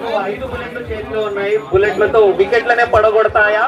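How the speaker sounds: excited live play-by-play; telugu cricket commentary. Real, not acted. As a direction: call the wicket as it falls.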